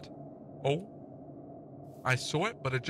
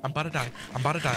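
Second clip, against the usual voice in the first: panicking gamer; much faster than usual. Real, not acted. Chased by mobs, begging for help.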